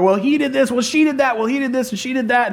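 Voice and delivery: put-on bickering kids. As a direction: trade blame like squabbling children.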